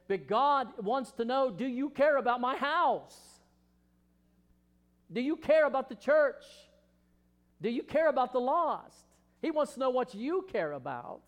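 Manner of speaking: high, loud pleading questions; loud preacher's challenge; preaching at full force. Acted. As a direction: press them hard, rising. Preacher voicing God's question, rising.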